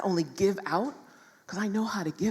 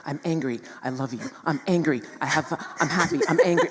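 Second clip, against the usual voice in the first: swinging emotions; 5 dB louder than usual. Retold or imitated. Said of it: "what just happened in my body".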